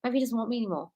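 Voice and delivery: softly voiced inner monologue; quiet, anxious musing, acted out; private worrying thoughts. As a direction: drop the volume as if thinking to yourself. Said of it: "You started thinking".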